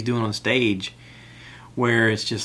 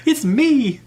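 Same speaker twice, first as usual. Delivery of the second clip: fangirl scream; 7 dB louder than usual. Retold or imitated. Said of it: "I was like".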